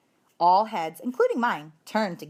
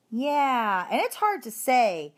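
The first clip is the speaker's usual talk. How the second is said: blurted; 5 semitones higher, slower than usual. Acted. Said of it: "Heidi blurted out".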